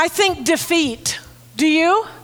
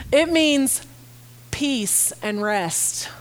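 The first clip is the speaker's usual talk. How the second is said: softer, slower peace and rest; 4 dB quieter, slower than usual. Real, not acted. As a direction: sink into calm, slowing right down. Quiet assurance of peace.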